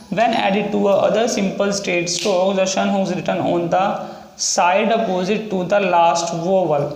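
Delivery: slow dictation of a rule; slow reading aloud. Shown as a demonstration. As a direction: read the rule out slowly, word by word. Reads English rule slowly.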